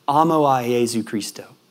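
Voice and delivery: Spanish phrase. Retold or imitated. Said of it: "he says to me".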